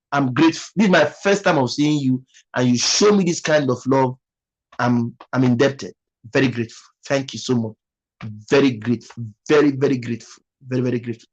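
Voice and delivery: low, subdued heartfelt thanks; humbled, voice dropping as the gratitude sinks in; emotional gratitude. Real, not acted. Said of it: "before you make me fall emotional".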